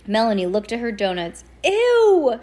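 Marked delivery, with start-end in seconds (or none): 1.6-2.4 loud, high disgusted shout. A narrator's reading. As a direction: yell it out in disgust. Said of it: "she shouted".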